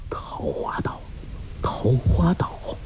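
a stunned, hushed murmur. A narrator's reading. Dumbstruck fisherman murmuring the island's name, hushed. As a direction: breathe the name twice in awe. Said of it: "喃喃地说".

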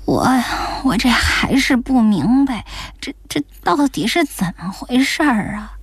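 略带结巴地追问; 糊里糊涂，犹犹豫豫地问; 困惑不解. Acted. 老太太仍听不明白. (茫然追问)

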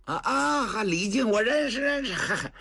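high, chuckling recognition; laughing old general. Acted. Cheng Yaojin delighted to hear the boy's teacher, laughing high.

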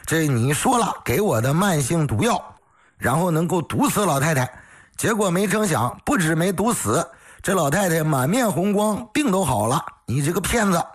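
daughter-in-law berating the quack doctor, acted with moderate heat; angry scolding. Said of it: "张口劈头盖脸就说".

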